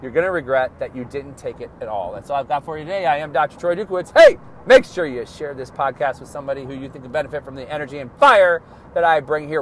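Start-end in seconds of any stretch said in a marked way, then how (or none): 4.1-9.6 emphatic. Real, not acted. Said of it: "Wow, that was very emphatic".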